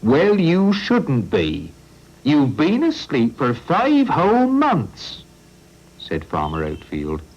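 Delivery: a stubborn farmer refusing to let cars cross his land; Farmer Oatfield. Acted.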